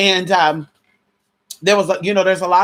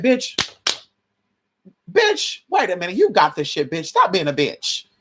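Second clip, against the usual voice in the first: self pep talk; 3 semitones higher than usual. Retold or imitated. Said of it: "having pep talks with myself".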